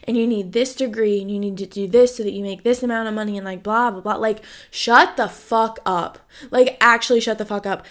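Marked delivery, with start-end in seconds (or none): 4.7-7.9 angry. Real, not acted. Fed up with life timelines.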